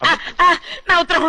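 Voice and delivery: high-pitched wail of dismay; upset wail. Acted. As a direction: cry out for your letter, voice way up. Upset about his love letter. (బాధతో గోలగా)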